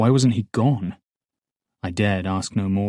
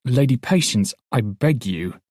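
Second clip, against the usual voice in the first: pleading; 3 semitones higher, 4 dB louder than usual. Acted. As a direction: beg her to go. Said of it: "A change of tone from the guard".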